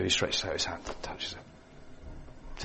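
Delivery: slow breathless whisper for the sacred moment; hushed whisper. Real, not acted. Preacher describing Jesus touching the leper, slow awed whisper. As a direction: whisper it slowly, full of awe.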